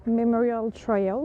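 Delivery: slow English-accented French speaker; super English accent. Real, not acted. Vlogger reading the memorial trail's name, super English accent. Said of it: "Avec mon super accent anglais".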